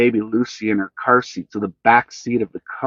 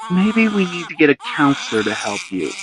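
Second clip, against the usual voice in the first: calm; 5 semitones higher than usual. A narrator's reading. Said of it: "said Senny calmly".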